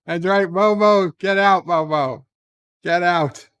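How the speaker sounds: loud mock order to leave; mock commanding. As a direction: throw Momo out with hammed-up authority. Streamer echoes the banishment.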